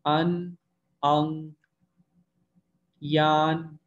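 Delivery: अन, यान, इन, वान end on n; अंग, यांग, इंग, वांग end on ng; Chinese nasal pairs drill. Shown as a demonstration. Teacher drills n and ng finals aloud, slow pairs. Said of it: "आन और आंग में क्या different".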